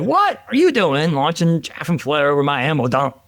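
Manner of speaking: mock dressing-down from a furious superior; mad general. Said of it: "He's mad".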